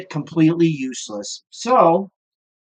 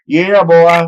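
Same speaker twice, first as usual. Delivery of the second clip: laughing whoop, loud and proud; triumphant laughing yell; gleeful shout; 8 dB louder than usual. Real, not acted. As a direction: crow it out with a laugh. Gleeful after flinging turds.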